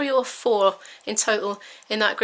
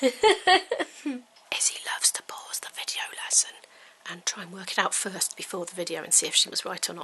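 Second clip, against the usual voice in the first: soft, hushed whisper under the breath; 3 semitones lower, 6 dB quieter than usual. Narrating a video lesson about Izzy pausing it, whispering.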